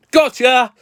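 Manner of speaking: shouted high and loud prank reveal; spring the trap with a triumphant yell; gleeful gotcha. Real, not acted. April Fools prank reveal.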